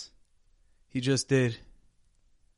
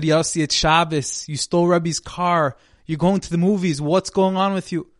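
raised, higher urgent plea; pleading friend; 5 semitones higher, 6 dB louder than usual. Acted. Friend begs Yossi not to leave, raised voice.

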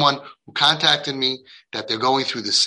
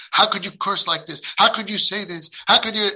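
higher imitation of a scolding parent; mock reproach; 5 semitones higher than usual. Parent scolding a cursing child, imitated reproach. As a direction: act out indignant, repeated reproach.

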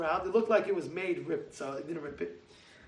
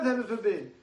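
ordinary delivery

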